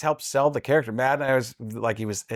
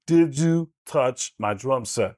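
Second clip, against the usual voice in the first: John C. Reilly impression; slower than usual. Shown as a demonstration. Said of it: "becomes John C. Reilly".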